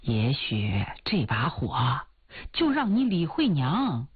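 拿腔拿调地安慰，起伏很大; 像追求者哄心上人宽心; 乐观劝慰的追求者. Acted. Suitor consoles heroine. (拿腔拿调、宽慰人的追求者)

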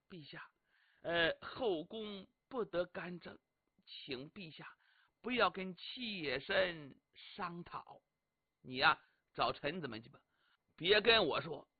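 低声细语，柔中带拒; 妃子轻声推辞，不肯过问朝政; 轻柔婉拒. Acted. 萧美娘婉拒议政. (萧美娘轻声回绝李密问政)

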